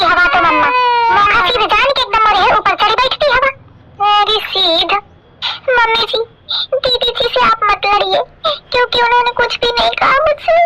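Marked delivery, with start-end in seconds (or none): 5.7-10.6 mock crying. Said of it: "तो कह रोवत है तू?".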